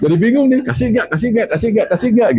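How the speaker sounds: high, comic indecisive flip-flopping; acted-out dithering. Husband debating whether to tell his wife the PIN, comic dithering. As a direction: play confused, seesawing in a high voice. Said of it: "Bingung kan gitu".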